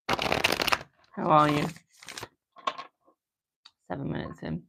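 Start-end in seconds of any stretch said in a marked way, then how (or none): 0.1-1.7 very slow, stretched "how are you"; drawn-out greeting. Real, not acted. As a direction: draw the question out slowly.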